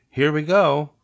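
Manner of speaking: high, loud, quick call; cheery send-off. Acted. Cub sets off pedaling with new friend, cheery. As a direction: announce the start of a ride.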